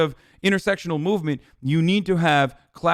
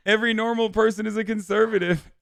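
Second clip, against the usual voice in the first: mocking read; 5 semitones higher than usual. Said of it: "read this guy's messages".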